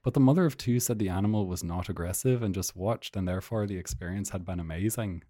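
news item in generic Irish; put-on Dublin-ish Irish accent. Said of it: "generic Irish accent".

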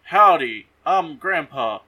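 lightly voiced folksy grandpa; hint of a western grandpa. Grandpa walking in to greet family, lightly put on. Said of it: "And the grandpa walks in".

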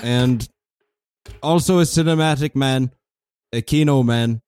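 put-on German accent, measured show opening; German TV host. Host welcomes viewers to German cable access, stiff German voice. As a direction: formally present the guest in a halting German accent.

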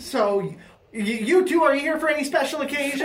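put-on high, polite kid voice; little bellhop boy. Bellhop politely correcting an old lady, high boy voice. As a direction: raise it into a courteous small boy. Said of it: "we see a little boy".

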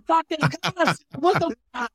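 high rowdy crowd chant. Retold or imitated. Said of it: "everyone's going".

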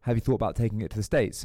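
lightly imitated thick Southern accent. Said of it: "thick Southern accent".

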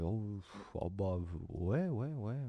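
lent et blasé, soupir traîné; réponse nonchalante, sans intérêt; je-m'en-foutiste. Retold or imitated. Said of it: "il a l'air de s'en foutre un peu". (ton détaché qui s'en fiche)

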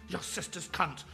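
high, strained insult; angry curse. Acted. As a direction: hurl it as a curse. Gunman curses the reporter.

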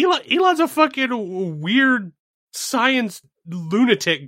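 high, slow laughing rant. Real, not acted. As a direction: laugh through it slowly.

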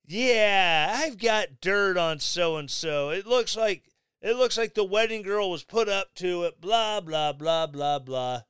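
a deliberately bad Italian accent, barely put on; mock Italian accent, hardly there; crappy Italian accent. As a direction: read the texts in a half-hearted Italian accent. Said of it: "I'm getting told my Italian accent sucks".

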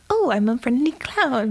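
creepy clown voice, lightly imitated; Pennywise. Clown luring a little boy, creepy friendliness. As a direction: put on a falsely friendly clown. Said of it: "it's still very creepy voice".

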